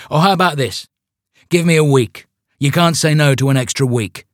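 high, exasperated pleading. Acted. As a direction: bargain with rising exasperation. Exasperated leader bargains.

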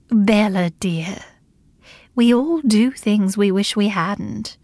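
gentler. Acted. Dorothy calming the angry Bella, gentle. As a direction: ease her down gently. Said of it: "her voice became a little gentler".

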